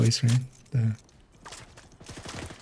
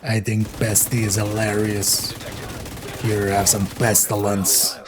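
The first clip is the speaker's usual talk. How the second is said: gruff clown voice; 4 semitones lower, 4 dB quieter than usual. Acted. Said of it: "this guy's voice".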